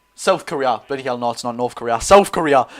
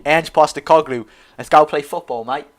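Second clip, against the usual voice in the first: amateurish attempt at an Australian accent; mock Australian, badly done. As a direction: put on a clumsy Aussie twang. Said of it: "That's a very bad Australian accent".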